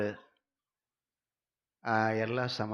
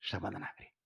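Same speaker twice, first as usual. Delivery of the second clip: soothing; 4 semitones lower, 11 dB quieter than usual. Retold or imitated. Wife calms angry husband.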